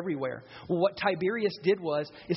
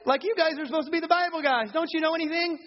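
mocking scorn; 8 semitones higher than usual. Mocking the religious leaders.

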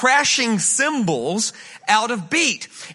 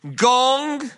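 Gongismon drawn out syllable by syllable, a bit higher; said slowly; 4 semitones higher than usual. Shown as a demonstration. Pastor teaching the church the Greek word, said slowly. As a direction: spell out Gongismon slowly for the congregation. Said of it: "So I'm gonna say it slowly".

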